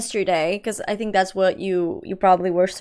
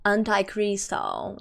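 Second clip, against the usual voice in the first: copying the alert voice; 3 semitones lower, 6 dB quieter, slower than usual. Retold or imitated. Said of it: "That's how he said".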